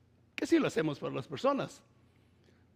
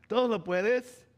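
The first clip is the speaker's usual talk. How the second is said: "Todo" raised and louder, proclaimed in full; proclaimed verse; 3 semitones higher, 5 dB louder than usual. Shown as a demonstration. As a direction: preach the verse out, loud and lifted. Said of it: "se dice". (versículo proclamado en voz alta)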